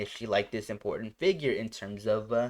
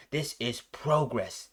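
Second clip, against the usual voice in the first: cold emotionless; slower than usual. Retold or imitated. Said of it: "you don't hear any kind of emotion out of it".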